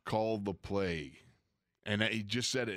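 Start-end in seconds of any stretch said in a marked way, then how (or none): 0.1-1.2 slow, dead-level growl of a line; dead Dirty Harry voice. Retold or imitated. Webster to the coach, a slow dead Dirty Harry voice. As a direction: say it flat and slow, like Clint Eastwood. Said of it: "in a dead, Dirty Harry voice".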